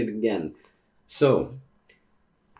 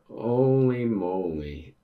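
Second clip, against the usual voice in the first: stunned; much slower than usual. Real, not acted. Shocked reaction, drawn out.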